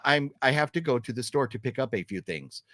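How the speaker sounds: over-enunciated wooden line; stiff movie dialogue. Shown as a demonstration. Mocking unnatural dialogue in bad movies. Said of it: "we don't talk like that".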